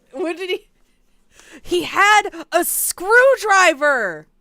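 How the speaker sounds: loud, slow, high shocked exclamation. Real, not acted. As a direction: stretch it out in disbelief. Reactor shocked by detail.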